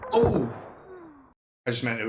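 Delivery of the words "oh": surprised. Real, not acted. Startled by overkill gunshot.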